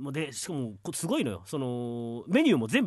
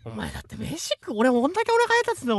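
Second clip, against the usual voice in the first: mock angry complaint; 6 semitones higher than usual. Sketch, arguing with companion.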